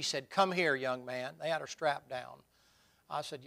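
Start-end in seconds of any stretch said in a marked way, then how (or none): 0.3-1.4 retold summons, louder and slow; calling him over. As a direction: call out a slow, mildly demanding summons.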